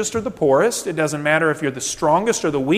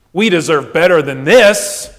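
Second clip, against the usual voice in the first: entitled complaint; 6 dB louder than usual. Acted. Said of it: "we said".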